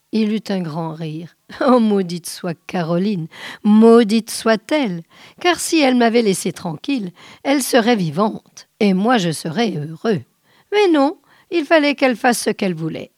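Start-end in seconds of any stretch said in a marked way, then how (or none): 1.6-13.1 heated, bitter outburst with loud bursts; bitter cursing. Acted. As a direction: curse her with growing resentment. Killer curses his dead wife.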